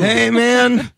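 lazy, drawn-out stoner greeting; lightly voiced stoner dude. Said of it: "smoker, stoner voice".

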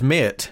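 "mate" stretched into two syllables, "mee-ut"; Lincolnshire "mate". Shown as a demonstration. Podcaster showing the local form of address, "mate" as "mee-ut". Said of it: "In Lincolnshire".

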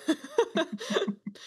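bursting into high laughter; a sudden helpless laugh. Real, not acted. Player laughs at the request.

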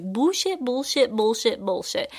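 mock scoffing in a horrible put-on accent; Kristen Bell horrible accent. Kristen Bell's character scoffing at Russell Brand, horrible accent. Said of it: "And I did a horrible accent".

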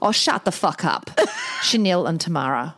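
attempted New Zealand accent with a laugh; Kiwi accent. Podcaster mimicking Kiwi listeners, wobbly Kiwi accent. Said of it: "There's Kiwi people going".

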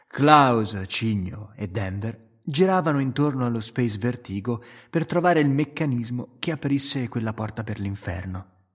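ordinary delivery

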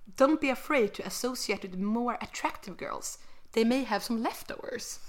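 Swedish-accented English read-out. Real, not acted. Host reads old dating tip to friend, Swedish-accented English. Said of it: "my horrible English accent".

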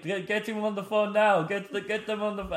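high-pitched mock frantic orders; rally everyone as if it's a breakthrough; hammed-up urgent excitement; excited urgency. Acting driver's excited call to action.

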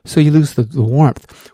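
ordinary delivery

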